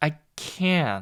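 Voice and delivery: heavy stress on can, drawn out, no t sound. English lesson on saying can't: stress on can, no t sound. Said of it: "강세로 그리고 이 느낌으로 말해줍니다".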